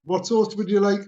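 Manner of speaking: drive-through worker's everyday question; routine question. Retold or imitated. Drive-through worker asks customer for sauce, routine. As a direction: ask it evenly, as a routine order query. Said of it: "she's going".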